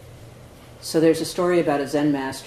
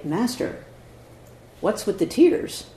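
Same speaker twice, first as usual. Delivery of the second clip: students' puzzled question; 6 semitones higher, 3 dB louder, slower than usual. Retold or imitated. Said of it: "And they say".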